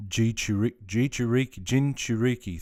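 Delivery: Jichuri-, Jichuriki, Jinchuriki tried syllable by syllable until Jinchuriki comes out whole; working out a pronunciation. Shown as a demonstration. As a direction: sound out Jichuriki in pieces and land on Jinchuriki. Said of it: "J H told me how to pronounce it".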